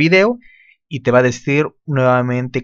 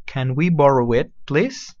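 slower model; 3 dB quieter, slower than usual. Shown as a demonstration. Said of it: "Listen to the pronunciation first".

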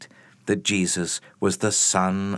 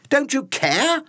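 high, loud pleading cry; desperate cry; 4 dB louder than usual. Acted. Frightened fishermen crying out to Jesus, desperate high cry. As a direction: fling the question out in panic.

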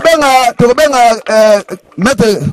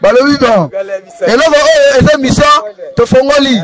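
raised-pitch address to the group; leading call and response; 3 semitones higher than usual. Real, not acted. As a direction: call it out for the whole club. (kobelela bato ya club)

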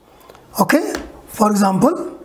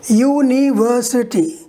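University in spaced syllables with VER raised; stress on VER. Shown as a demonstration. Teacher showing how one syllable goes higher, stressed VER. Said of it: "One syllable will be higher".

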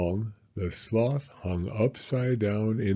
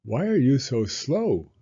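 questioning animal; 5 semitones higher, 6 dB louder than usual. Acted. Howler monkey asks sloth.

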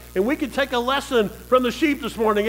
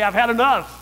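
mock fed-up declaration; 3 dB louder than usual. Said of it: "get fed up with that and say".

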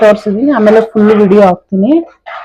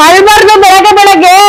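sing-song hushing; 12 semitones higher, 5 dB louder than usual. Real, not acted. Mother hushing her crying toddler in the early morning, high sing-song baby talk. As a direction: croon at him not to cry.

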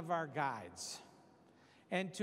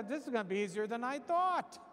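lightly voiced sneering ghost, a bit higher; mocking ghost; 4 semitones higher than usual. Ghost taunting Peter to step out, mild mocking sneer. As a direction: tease him like a predator luring prey. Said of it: "The ghost is there".

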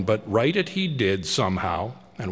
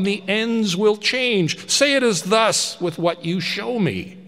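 put-on higher, louder anxious old man begging; pleading Scrooge; 9 semitones higher, 6 dB louder than usual. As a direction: plead with the silent spirit for an answer. Scrooge reasons with the ghost.

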